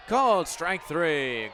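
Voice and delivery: loud, punchy strikeout call, drawn out; excited call. Real, not acted. Play-by-play announcer calling the strikeout, loud and excited. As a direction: belt out the called third strike.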